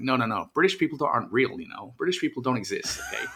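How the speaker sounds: playful fake American accent; hammed-up American accent, teasing; put-on American accent. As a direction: joke along in a mock American voice. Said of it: "drop into this accent for a while".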